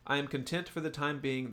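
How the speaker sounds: resume the villain's measured monologue; Mister Big. Acted. Host continues reading the villain's speech, lightly acted villain. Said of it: "this is Mister Big speaking, the villain".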